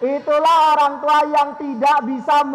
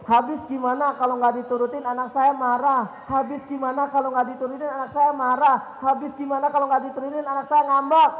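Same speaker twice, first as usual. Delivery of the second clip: whiny parent; 4 dB quieter than usual. Retold or imitated. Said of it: "sering mengatakan kalimat semacam ini nih".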